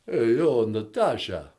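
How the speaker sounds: Stallone impression. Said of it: "it's Sylvester Stallone".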